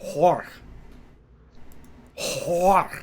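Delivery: Hor with a clear breathy H; pronouncing Hor. Shown as a demonstration. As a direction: say Hor, the H sounded, not Poor. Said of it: "Poor Thonos?".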